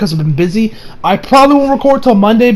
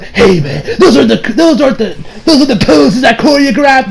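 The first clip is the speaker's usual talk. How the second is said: high laughing protest; laughing complaint; 6 semitones higher than usual. Retold or imitated. Barry complaining.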